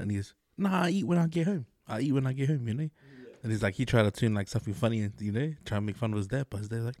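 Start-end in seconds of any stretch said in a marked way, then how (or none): 0.6-2.9 higher-pitched dad in broken English. Retold or imitated. Dad declining his son's food, mock broken English. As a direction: lightly imitate a Vietnamese dad's broken English. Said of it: "his English is real broken".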